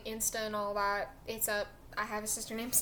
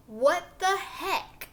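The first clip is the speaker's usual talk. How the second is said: slow, higher, laughing what the heck; laughing disbelief; 8 semitones higher, 9 dB louder, much slower than usual. Real, not acted. Telling a friend about his lie, slow laughing disbelief. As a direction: laugh out your disbelief, drawn out.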